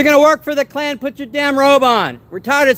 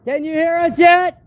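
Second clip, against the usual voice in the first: calling from far away; 6 semitones higher, much slower than usual. Real, not acted. Calling up to the office.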